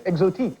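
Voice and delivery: exotique said the French way; French pronunciation. Shown as a demonstration. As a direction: put a French ending on exotique. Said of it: "I think in French".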